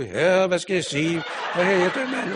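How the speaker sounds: loud retold plea, breaking into laughter; half-laughing, call out to God for an answer; laughing mock cry to God. Pastor retells his panicked prayer, loud and laughing. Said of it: "jeg råbte til Gud".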